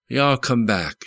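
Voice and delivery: a hint of a southern clerk saying "Y'all come back"; southern goodbye. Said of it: "That was the way to say goodbye in the South".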